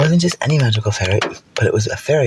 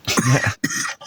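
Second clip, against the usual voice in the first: unicorn laugh; 3 dB quieter than usual. Acted. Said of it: "the unicorn goes".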